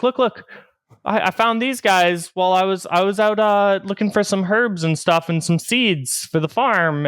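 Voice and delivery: put-on high, eager kid voice talking fast; nervous kid. Apprentice boy explaining to his master, high and nervous. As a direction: babble your excuses like a guilty boy. Kid pleads then boasts.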